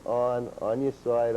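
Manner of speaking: normal talking voice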